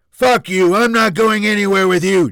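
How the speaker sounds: explosive high-pitched shout; angry snap. Acted. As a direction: snap back loudly in open defiance. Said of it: "Junior snapped".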